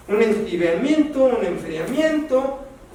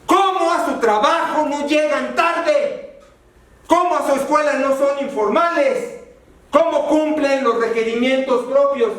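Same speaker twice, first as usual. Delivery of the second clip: preguntas de reproche, más agudas; reproche del diácono; 5 semitones higher than usual. Retold or imitated. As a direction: reclama con preguntas punzantes. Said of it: "les decía". (diácono que reprocha a la congregación, tono severo)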